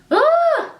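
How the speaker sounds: high whooped exhale; steadying "ooh". Real, not acted. Vlogger trying not to cry on camera, high steadying ooh. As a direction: shake off the tears with a high ooh. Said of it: "get through this without crying".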